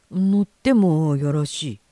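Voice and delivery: slow, measured official permission; lightly voiced railway official; station attendant. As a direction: grant it slowly, with a touch of pomp. Station man grants permission.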